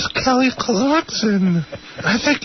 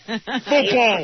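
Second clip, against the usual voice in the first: KC impression. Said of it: "It's K C".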